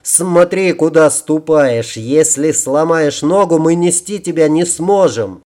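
mildly exasperated telling-off; acted grumbling reprimand; scolding. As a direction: scold the stumbler, drawing out the opening words. Character scolds woman who fell.

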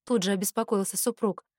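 usual speaking voice

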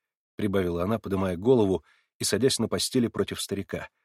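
ordinary delivery, nothing marked

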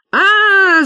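very loud, high wailing scream; panicked scream. A narrator's reading. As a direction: scream in terror. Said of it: "завопил Сашка". (истошный вопль)

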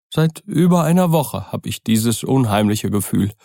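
put-on an old servant whose nerves are fraying; frightened old servant. Poole confesses his dread.

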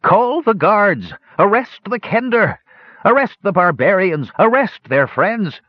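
put-on high, quavering old man crying out; quavery old voice crying out. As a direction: cry it out like a frail old man. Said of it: "A quavery old voice cried".

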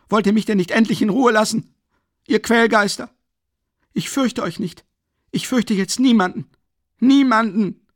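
hoch und laut, verzweifelt weiterschreien; außer sich. A narrator's reading. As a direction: schrei sie alle hinaus. Raskolnikow schreit weiter außer sich. (außer sich schreiend)

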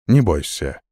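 low, gentle demon reassurance; calm demon voice. Acted. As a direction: soften the monster's voice. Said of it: "уже спокойно произнёс".

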